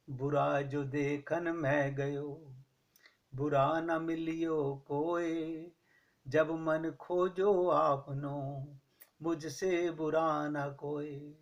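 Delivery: drawn-out, measured reciting of a doha; slow couplet recitation. Acted. Preacher reciting a Kabir doha to the congregation, slow and measured. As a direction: lay each half-line down slowly, like verse.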